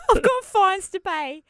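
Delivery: high, slow laughing quote. Retold or imitated. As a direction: savour the line through laughter. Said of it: "It's great".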